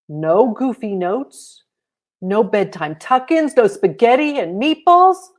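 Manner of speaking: put-on a kid's list climbing to a wail; rising dismay. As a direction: pile up the losses with growing alarm. Child building list in dismay.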